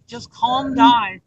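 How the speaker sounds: slow, drawn-out reassurance; steady someone who is panicking; retold calming words, taken slowly; soothing. Retells soothing a distraught friend.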